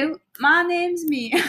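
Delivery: bad British accent; mock British accent, a touch embarrassed. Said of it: "Do this accent".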